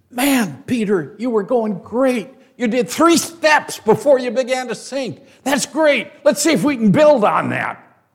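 high, loud, hammed-up pep talk; mock cheerleading. Preacher imagining Jesus praising Peter, hammed-up cheer. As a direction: cheer him on like an eager coach.

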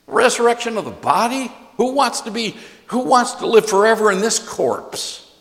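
high, scoffing mock of Greek hecklers. Preacher voicing Greeks who laughed at Paul, lightly scoffing. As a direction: sneer at the idea like a scoffing Greek. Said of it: "they laughed at him".

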